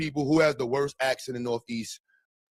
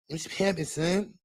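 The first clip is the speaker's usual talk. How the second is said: YN voice; 3 semitones higher, 3 dB quieter, slower than usual. Pretend. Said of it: "Do a Y N voice".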